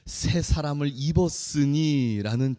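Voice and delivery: slow title. Shown as a demonstration. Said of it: "오늘 제목이 뭐라고요?".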